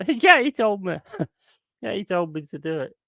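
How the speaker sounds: high, giggling pretend excuse; laughing mock excuse. Naked viewer excusing himself to his wife, laughing. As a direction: squeak it out through laughter.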